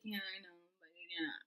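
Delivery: hushed, low reply; quiet retold aside; offhand agreement. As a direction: murmur it softly, playing along. Plays along with compliment.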